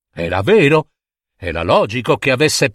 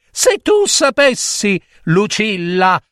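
lightly voiced troubled father; hint of a worried king holding back a secret; mild lament; sighing king; 6 semitones higher than usual.

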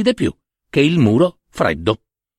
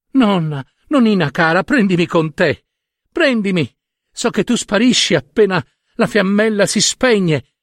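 put-on higher, urgent childlike plea; pleading little girl; 5 semitones higher than usual. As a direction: beg like a small girl clinging to her grandma. Girl begs grandmother to take her.

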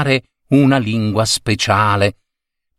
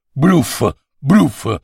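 put-on child's reply; 3 semitones higher than usual. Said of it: "rispose il secondo".

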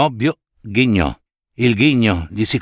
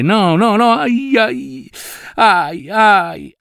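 high, sharp yelps of toothache pain; cries of pain; 9 semitones higher, much slower than usual. A narrator's reading. Notary crying out as the toothache flares again, yelping in pain. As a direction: cry out as the tooth stabs again.

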